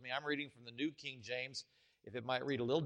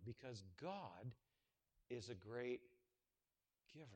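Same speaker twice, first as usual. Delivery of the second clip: much softer and lower, lingering; hushed preaching; 4 semitones lower, 5 dB quieter than usual. Acted. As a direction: pull them close, almost confiding. Drops to intimate hush.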